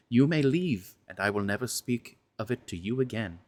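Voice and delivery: the same confession reread, stressing the key words; reread for emphasis. Shown as a demonstration. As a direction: lean on the right syllables this time. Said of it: "those last lines again for emphasis".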